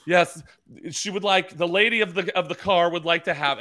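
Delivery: high, grand butler voice for the lady; formal drive-thru show. Retold or imitated. Husband performing for wife at the speaker, high pompous voice. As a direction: announce her order like a royal servant. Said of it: "I put on a whole show".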